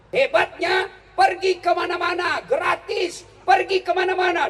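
high, loud boastful shout; excited preaching. Real, not acted. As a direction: rouse the crowd. (seruan bersemangat dengan nada tinggi dan keras)

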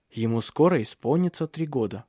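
ordinary delivery

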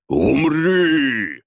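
fighter's attack cry; yelling. A narrator's reading. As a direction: scream the death wish. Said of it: "заорал Батуми".

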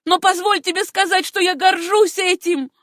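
high, loud proud defiance; defiant. Acted. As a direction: throw her pride in his face. Susanna defies her uncle. (высокий громкий гордый вызов)

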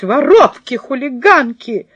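angry shout. Acted. Woman accuses the girls in front of passersby, angry yell. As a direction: scold the girls as thieves. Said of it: "стала кричать".

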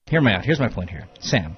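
hushed secretive whisper. Acted. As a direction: drop to a whisper to get her attention. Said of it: "Why are you whispering?".

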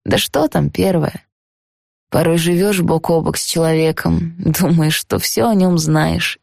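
musing grandmother, fading away; old lady voice. Acted. Grandmother's dream monologue.

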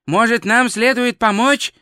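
a keen tourist offering help. Acted. Twoflower voiced in dialogue.

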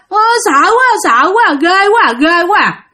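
put-on high, tearful little child's voice; a small child whimpering in fear; frightened crying child. A narrator's reading. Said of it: "nó cứ nói vậy đó". (giọng bé con khóc thút thít vì sợ hãi, cao vút)

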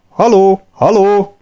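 high, loud hail across the desert; shouting hello into the distance; distant calling. Acted. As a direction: call out to someone far away. Calling out to find the others.

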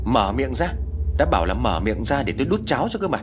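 impatient daughter-in-law yelling to eat; yelling at old mother. Acted. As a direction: bark the order at the helpless old woman. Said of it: "rồi quát lớn".

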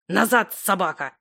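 hissed. A narrator's reading. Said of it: "прошипел старик".

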